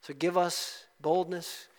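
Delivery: earnest pastor's prayer, rising and settling; closing prayer. Acted. Pastor praying for boldness for the congregation, earnest. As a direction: pray it over the church with conviction.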